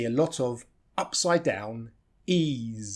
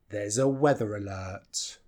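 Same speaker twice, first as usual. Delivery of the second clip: "weather alert" stressed, "There's a" kept weak; 3 semitones lower than usual. Shown as a demonstration. Teacher showing the stressed words, weighty "weather alert". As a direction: lean on "weather alert" in a slow phrase. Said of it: "we stress these".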